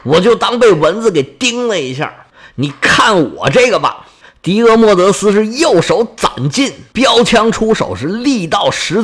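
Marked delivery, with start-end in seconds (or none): 0.0-4.1 cold sneer. Acted. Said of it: "微微冷笑：".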